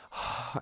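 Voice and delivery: breathy, wordless sigh of feeling faint; acted sigh. Showing listeners how near-fainting feels, woozy sigh. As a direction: imitate a woozy exhale.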